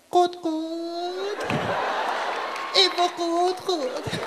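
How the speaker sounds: a Tehrani hen working itself up. Pretend.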